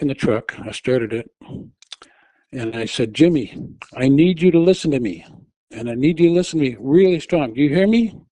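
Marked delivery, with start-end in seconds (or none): 3.1-8.2 raised, higher, firm and insistent; firm urgent plea. Retold or imitated. Wife pleading with her husband to focus, firm raised voice. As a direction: make him listen, word by word.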